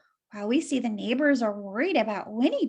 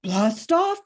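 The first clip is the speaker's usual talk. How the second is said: fox's cry; 3 semitones lower, 5 dB louder than usual. Acted. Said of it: "cried the stranger".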